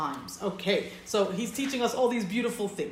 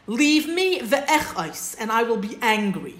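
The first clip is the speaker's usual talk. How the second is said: lightly voiced God; 3 semitones higher, 4 dB louder, slower than usual. Teacher voices God threatening anger, slow and raised. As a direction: stretch it out like a solemn voice from above. Teacher voicing God's angry words.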